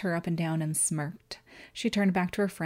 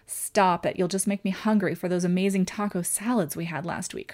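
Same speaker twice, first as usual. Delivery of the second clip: complaining. Acted. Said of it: "her friend complained".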